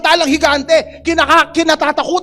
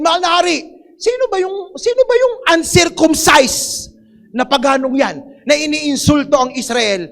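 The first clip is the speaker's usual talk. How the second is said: David's defiant challenge; 2 semitones higher than usual. Acted. Preacher as David challenging the king, outraged. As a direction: demand to know who dares insult God.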